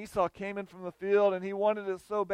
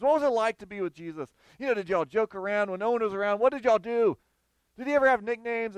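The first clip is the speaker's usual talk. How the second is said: quick, higher, eager questioning, rising to louder; curious eager questions; 4 semitones higher, 3 dB louder than usual. Retold or imitated. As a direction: pepper them with excited questions. Early church quizzing the disciples.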